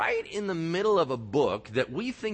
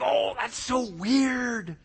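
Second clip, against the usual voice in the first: puzzled angels; 8 semitones higher, much slower than usual. Retold or imitated. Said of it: "and they're like".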